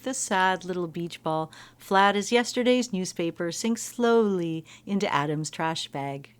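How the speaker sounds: slow, dramatic narrator read; early YouTuber voice. Retold or imitated. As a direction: read it like a cheesy video narrator. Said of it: "she's using, like, early YouTuber voice".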